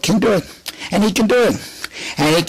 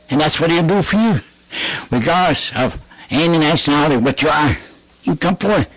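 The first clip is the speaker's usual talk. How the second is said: raised, rhythmic altar call; preaching; 3 semitones higher than usual. Acted. Preacher urging listeners to come forth, fervent preaching. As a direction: call sinners out with rising fervour.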